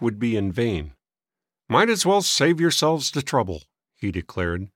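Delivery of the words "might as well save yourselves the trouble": higher-pitched discouraging grumble; testy old man. A narrator's reading. Old man discouraging the boys' search, testy. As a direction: dismiss it like a crotchety old man.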